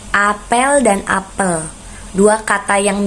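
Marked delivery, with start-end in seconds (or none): 0.1-1.6 "Apel dan apel" slow, the vowel e of each "apel" set apart; over enunciating. Shown as a demonstration. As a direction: contrast the two "apel" vowels slowly. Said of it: "karena pelafalan vokalnya berbeda".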